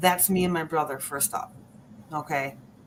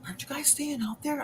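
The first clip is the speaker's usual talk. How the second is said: high, soft voice for Mom; imitated mom's question; 9 semitones higher, 8 dB quieter, faster than usual. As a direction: quote Mom in a light, raised voice. Voicing Mom's question in the story.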